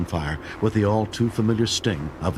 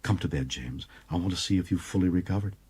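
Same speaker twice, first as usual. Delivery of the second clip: playful. Acted. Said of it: "She smiled playfully".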